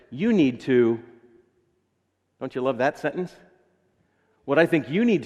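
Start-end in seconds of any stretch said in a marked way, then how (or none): 0.1-1.0 judgmental tone. Retold or imitated. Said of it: "judgment sounds like this".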